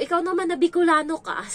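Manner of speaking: high, loud retort; talking back. Retold or imitated. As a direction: snap back at her. Retold quarrel on the bus. (pasigaw na sagot sa babaeng Bicolana)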